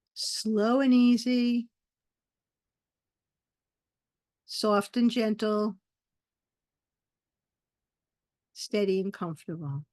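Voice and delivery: "Slow and easy" drawn out slowly, spaced with long pauses; slow repetition. Shown as a demonstration.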